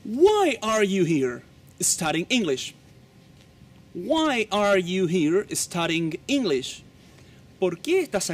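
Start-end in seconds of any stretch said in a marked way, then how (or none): 0.0-6.8 slow, drawn-out question for learners; careful teacher's dictation pace; slow model reading. Shown as a demonstration. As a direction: stretch out WHY, then measured English.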